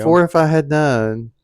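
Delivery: slow high loud fake dismay; mock shock. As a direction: ham up the disbelief slowly.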